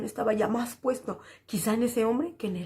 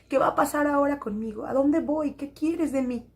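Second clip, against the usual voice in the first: raised, pleading cry to God, not a full shout; 4 semitones higher than usual. Retold or imitated. Widow alone after her mother died, crying out to God in raised pleading. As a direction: call out to heaven, desperate but restrained. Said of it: "Grité, le reclamé".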